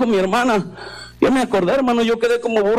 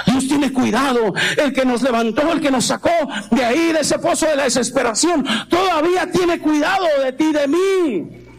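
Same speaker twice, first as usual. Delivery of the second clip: declaration building to a higher, sustained finish; fervent preaching; 3 semitones higher than usual. Real, not acted. Preacher assuring believers that God still cares, fervent. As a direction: proclaim it to the whole congregation.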